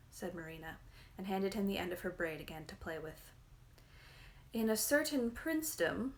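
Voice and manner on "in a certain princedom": with dignity. A narrator's reading. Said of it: "repeated with dignity".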